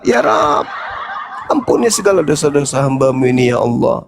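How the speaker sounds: low-pitched pleading prayer; humble prayer. Acted. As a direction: murmur a plea for forgiveness, dropping low. Acted prayer of repentance. (doa tobat lirih bernada rendah)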